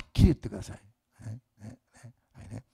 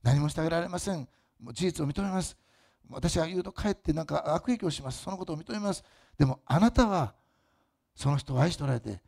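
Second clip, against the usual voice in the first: model prayer; 3 semitones higher than usual. Shown as a demonstration. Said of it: "って求めてください".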